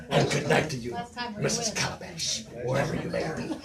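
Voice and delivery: a light hint of an old showman singer; showman's sign-off. A lightly voiced farewell to Missus Calabash. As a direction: tip the hat, croaky old showman. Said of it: "Missus Calabash would be".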